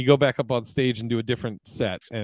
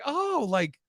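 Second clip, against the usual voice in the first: retold guess; 8 semitones higher, slower than usual. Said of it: "he was like".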